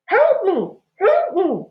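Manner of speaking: high, loud trapped plea; whimpering. A narrator's reading. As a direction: beg for rescue, desperate. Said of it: "a muffled voice whimpered".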